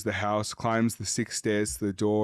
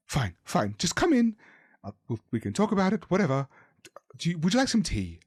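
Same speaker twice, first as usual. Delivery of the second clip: grudgingly calmer; 6 semitones higher, faster than usual. A narrator's reading. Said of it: "She visibly calms down".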